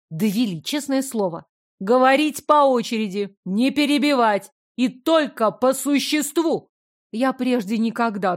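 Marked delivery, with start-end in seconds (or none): 1.8-6.7 stern orders. Acted. Princess orders the men to speak in turn, stern command. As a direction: lay down the rules firmly.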